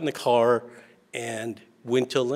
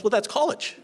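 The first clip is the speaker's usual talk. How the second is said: much higher, patient big sister explaining; 12 semitones higher than usual. Retold or imitated. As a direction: speak up high like a know-it-all older sister. Sister explaining college to kids.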